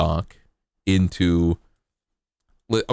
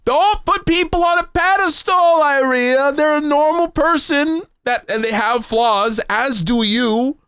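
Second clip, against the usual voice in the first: preachy high-pitched life coach; high advice voice; 9 semitones higher than usual. Acted. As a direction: lecture chat in a squeaky voice. Lectures chat in a put-on high voice.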